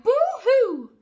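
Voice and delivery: high, loud mock boo-hoo; crying rat. The scared rat crying, a high mock boo-hoo. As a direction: wail like a cartoon rat. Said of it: "who cried".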